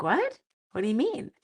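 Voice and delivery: high squeaky what; mock surprise. Teacher replays her reply to her grade seven boys, high squeak. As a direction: retell your own baffled reply. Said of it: "I'm like".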